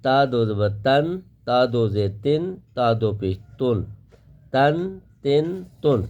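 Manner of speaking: تا read thin and light; teacher drills thin تا. Shown as a demonstration. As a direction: keep تن fine and light. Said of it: "باریک آواز کے ساتھ پڑھیں گے".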